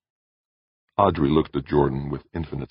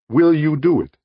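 high, measured voice of an alien being; 13 semitones higher, 7 dB louder than usual. Acted. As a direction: speak as a calm cosmic presence. Alien voice asks.

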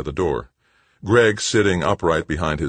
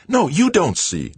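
higher and louder retort; voice slightly raised; 6 dB louder than usual. A narrator's reading. Brother answering the director, voice raised. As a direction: push it back at him, raised. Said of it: "raising his voice slightly".

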